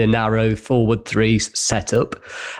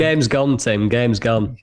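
Postecoglou impression; slower than usual. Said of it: "as Ange Postecoglou would say".

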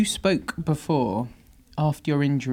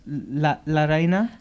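La Reina in a weak Spanish accent. Shown as a demonstration. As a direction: try the Spanish, English r in Reina. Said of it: "my Spanish accent is terrible".

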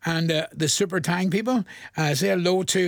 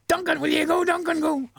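teasing singsong; 11 semitones higher than usual. Retold or imitated. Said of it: "Somebody says that to me".

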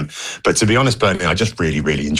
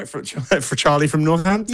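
laughing; 8 semitones higher than usual. Retold or imitated. Laughing, quoting Johannes's line.

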